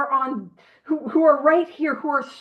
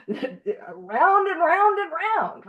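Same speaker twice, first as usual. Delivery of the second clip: slow, laughing repetition; 4 semitones higher, much slower than usual. Real, not acted. Speaker laughing at her old drinking cycle, slow and amused. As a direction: chuckle through the circling words.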